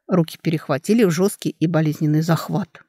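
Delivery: plain reading voice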